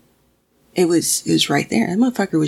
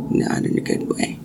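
whispered. Shown as a demonstration. Telling a viewer the dream felt wrong, in a whisper. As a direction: repeat it in a hushed whisper.

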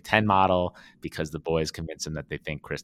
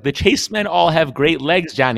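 much higher, loud mock pride; Vince bragging; 10 semitones higher, 10 dB louder than usual. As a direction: boast it loudly to your brother. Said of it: "Vince is like".

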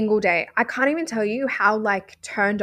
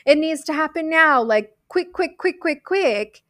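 higher, hurried mock impatience; imitating her own pushy, impatient mindset; impatient rushing self; 4 semitones higher than usual. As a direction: act out the frantic need to get there now. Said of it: "If I'm like".

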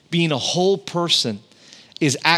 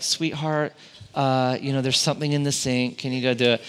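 softer, gentle sweetheart tone; sweet wife; 4 dB quieter than usual. Retold or imitated. Wife sweetly asking husband to fix the sink, softer. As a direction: coax him kindly, softly. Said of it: "it was more like".

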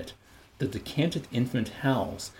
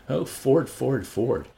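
exasperated; 4 semitones higher, 3 dB louder, slower than usual. Acted. Bernard groans in despair.

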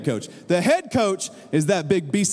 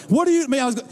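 high indignant outburst; retold yell; 8 semitones higher, faster than usual. Coach protesting the ref's call, yelling. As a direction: raise the pitch into a brief protest. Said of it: "I started yelling".

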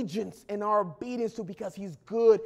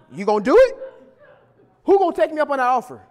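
laughing; 4 semitones higher, 8 dB louder, much faster than usual. Real, not acted. Laughing challenge to congregation.

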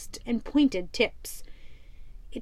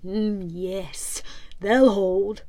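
Black Stash; 4 semitones lower, much slower than usual. Acted. Captain muses to himself about the sails, low.

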